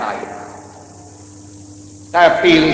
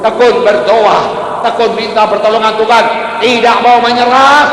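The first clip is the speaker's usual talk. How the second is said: building, higher-pitched insistence; rousing preaching; 7 semitones higher than usual. Real, not acted. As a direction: drive it upward to a climax. Preacher building emphatic climax. (berkhotbah berapi-api, makin tinggi)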